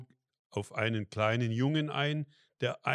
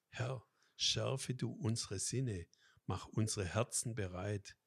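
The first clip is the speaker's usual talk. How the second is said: prayer; 4 dB quieter than usual. Acted. Spoken blessing prayer.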